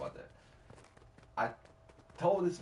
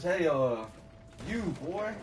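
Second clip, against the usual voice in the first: put-on old man calling out; 4 semitones higher, 4 dB louder than usual. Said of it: "All right, not like that".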